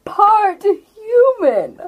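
a lightly voiced ancient turtle, slow and drawn out; slow old turtle. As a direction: speak as an unhurried old turtle, letting each word sink in.

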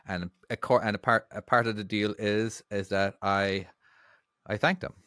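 hesitant, halting and trailing softly; nervous. Real, not acted. Host nervously starting to thank the channel's patrons. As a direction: nervously feel your way through it. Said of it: "genuinely sounds quite nervous at this".

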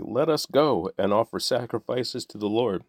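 lightly mocking echo of the plea; mild mocking quote. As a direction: sneer the plea back at them. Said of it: "That's why you're saying".

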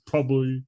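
"probably" slurred to "probal-you"; mock mispronunciation. Co-host teasing the reader's speech, mock mispronunciation. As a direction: say "probably" with its ending mangled. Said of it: "it just sounds like".

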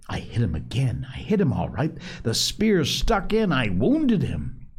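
rising excitement, words tumbling out; breathless eager boasting; excited. Acted. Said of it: "Ralph talked on excitedly".

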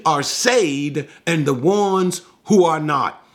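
rising and falling pulpit cadence; preaching. Acted. Preacher exhorting the congregation, preaching in full flow. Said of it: "Okay, enough preaching".

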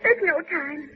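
desperate pleading. Acted. Desperate woman begging on phone.

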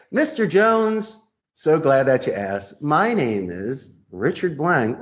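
drawn-out, deliberate answer with the name lingered on; slow warm reply. Shown as a demonstration. Salesman answers the boss's question slowly and warmly. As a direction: take your time introducing yourself. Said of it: "buffer boomerang question".

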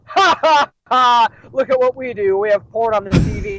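mock-cackle, then boast like a prankster; lightly hammed-up smug delight; gleeful showing off. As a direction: show off a naughty prank with a fake laugh. Mocking how the bar shows off.

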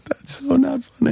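high, slow mock scold; mock disapproval. Real, not acted. Teasing the storyteller about the shooting joke, mock scolding. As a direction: tease him for the dark joke.

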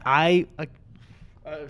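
burp caught mid-sentence; burping the words. Real, not acted. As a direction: speak through a burp. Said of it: "Christmas burp".

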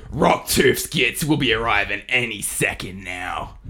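slow, lightly voiced orc grumble. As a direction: drawl it like a weary orc grunt. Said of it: "I'll have a quote".

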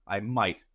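emphasis falling on "might"; stress on might. Real, not acted. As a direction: set "might" down as the key word. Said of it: "I wanna emphasize the word might".

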